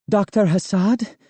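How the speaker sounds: high, out of breath question; breathless. A narrator's reading. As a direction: gasp it after running. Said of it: "she asked breathlessly".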